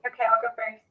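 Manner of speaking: muffled, underwater-sounding mic audio. Real, not acted. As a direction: talk through a covered, muffled mic. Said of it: "You sound like you're underwater".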